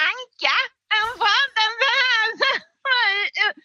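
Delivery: very high-pitched celebrity impersonation; hammed-up high voice, held up throughout; Anna Anka. Shown as a demonstration. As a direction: push the voice far up into a high squeal. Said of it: "när jag försöker låta som Anna Anka".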